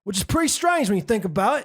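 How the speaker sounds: hammed-up English accent from London; cheeky Londoner voice, read with gusto. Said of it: "I'm gonna say it in his accent".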